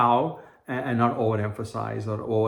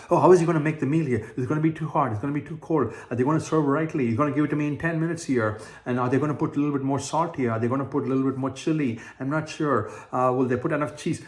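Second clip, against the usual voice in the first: fretful worry; 3 semitones higher, faster than usual. Retold or imitated. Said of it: "You don't overemphasize".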